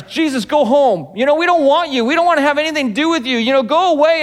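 picket-sign crowd. Retold or imitated. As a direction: shout him out of town. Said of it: "with their picket signs".

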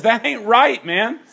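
high, loud casual street talk; Paul, casual and loud. Retold or imitated. Preacher voicing Paul scolding the eater, high and loud. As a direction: say it like a buddy calling foul. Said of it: "Paul says".

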